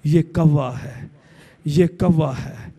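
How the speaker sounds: put-on patiently, like to a baby; lovingly patient. Mother gently repeating the word to her child. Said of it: "میں تجھے پیار سے بتاتی".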